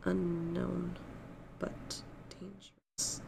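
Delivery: very quiet, hushed voice. Player's character answering a companion leaning close to his ear, very quiet. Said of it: "Like very, very quietly".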